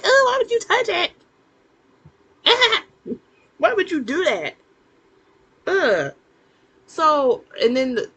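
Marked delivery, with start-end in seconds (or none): 0.0-6.1 high, louder, laughing through it; laughing disgust. Real, not acted. Watching the prince touch the skull, laughing and grossed out. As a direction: recoil in giggling horror.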